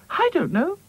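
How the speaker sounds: 1 upset. Acted. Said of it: "looking upset".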